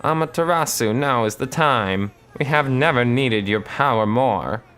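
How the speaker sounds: high, pleading spirit voice; solemn invocation. Acted. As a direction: call on the goddess with awe. Spirit invoking the goddess.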